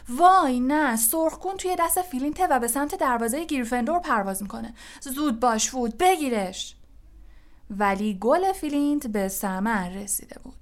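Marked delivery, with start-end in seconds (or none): 0.1-6.8 high, quick cry of dismay; alarmed commentary. Acted. Lee urges Wood to stop Flint, alarmed commentary. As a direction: blurt the danger fast, pitch raised.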